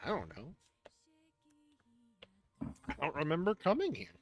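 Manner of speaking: sleepy mid-yawn mumble; groggy goblin yawning through the words. Acted. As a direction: drag it out like you just woke up. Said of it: "yawn and go".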